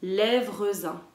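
lèvres un with the z linking into un; sounded-out liaison. Shown as a demonstration. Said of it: "Et ça va dire".

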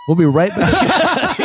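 high, loud, drawn-out host voice; mock a presenter hurrying to the break, stretched out loud; TV host sign-off. Host abruptly cuts to break.

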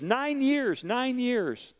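high-pitched, imitated tearful exclamation; retold sobbing. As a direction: imitate an overwhelmed woman, pitched well up. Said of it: "She's weeping, she's sobbing".

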